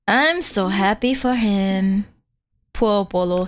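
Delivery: slow, deadpan sarcasm; mock cheer, plainly sarcastic. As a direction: say it flat and slow, meaning the opposite. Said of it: "It's so obviously sarcastic".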